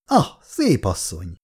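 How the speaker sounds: lightly sneering greeting; mock her with the compliment. Kátai greets the woman in the office, mildly mocking. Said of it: "mondta gúnyosan".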